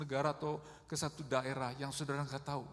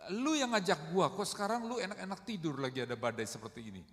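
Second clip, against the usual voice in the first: mild mock indignation, starting raised then quickening; acted angry complaint; 3 semitones higher than usual. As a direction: grumble as the annoyed disciples. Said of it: "Sebenarnya murid-murid itu marah". (omelan marah yang diperagakan)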